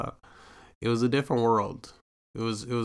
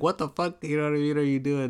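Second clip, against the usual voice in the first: higher, exasperated mom voice; a hint of a mother losing patience; impatient mom; 5 semitones higher than usual. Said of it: "uh, impatient".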